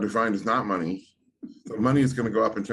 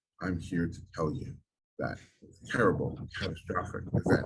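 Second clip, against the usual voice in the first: acted, breathy, half-whispered deadpan voice; 4 semitones lower, 7 dB quieter than usual. Retelling a website's audio with a prediction: imitating a deadpan voice. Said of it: "it has this deadpan voice".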